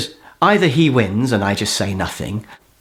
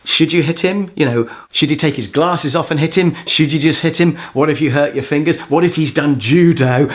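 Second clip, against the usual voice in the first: a hint of a small, doubting voice; tiny inner voice; 3 semitones higher than usual. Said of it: "a little tiny voice in my mind was saying".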